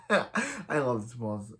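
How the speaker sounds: amused, drawn-out words through a laugh. Real, not acted. Fan delights in Earth two Wells, laughing. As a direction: laugh while gushing about a character.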